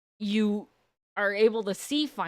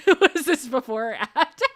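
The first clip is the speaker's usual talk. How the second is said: laughing; 4 semitones higher, 5 dB louder than usual. Real, not acted. Laughing at a chat question.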